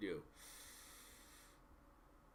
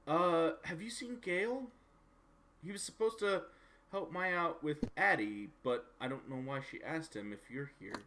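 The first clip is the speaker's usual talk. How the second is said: slightly raised, tentative in-character voice; lightly voiced worried visitor asking around; game character asking after someone; 7 semitones higher than usual. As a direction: voice a visitor, a touch higher at first.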